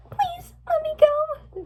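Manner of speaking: put-on slow, very high, tearful girl; high-pitched wailing plea; crying plea. A narrator's reading. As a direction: beg your captor, drawing out each word. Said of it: "cried Fluttershy".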